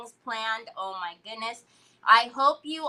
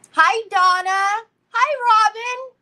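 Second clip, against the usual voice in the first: much higher, louder, slow "hi"; bright gushing greeting; 10 semitones higher, 9 dB louder than usual. Real, not acted. Greeting viewers as they join, loud and high. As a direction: welcome viewers joining the live stream.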